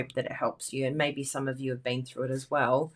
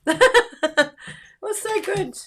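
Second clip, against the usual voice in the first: high laughing delight; much higher, giggling gleefully; 7 dB louder, much slower than usual. Real, not acted. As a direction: speak through giggles. Laughing about spinning.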